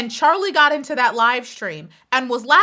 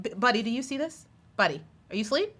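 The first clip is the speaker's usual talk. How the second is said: soft mock nudge; 7 dB quieter than usual. Real, not acted. Asks imagined viewer quietly.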